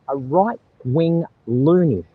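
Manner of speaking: mocking replay. Replays insult for viewers.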